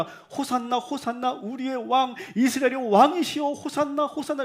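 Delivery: high-pitched, repeated crowd calls; imitated crowd cries. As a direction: imitate a crowd calling out over and over. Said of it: "외치는데".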